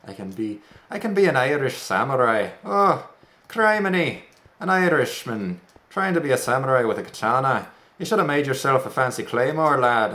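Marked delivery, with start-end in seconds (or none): 2.6-10.1 a hammed-up Scottish brogue, starting much higher; playful Scottish teasing, mild; jokey Scottish voice scolding himself over the katana; Scottish accent. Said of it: "offending everyone with my accents".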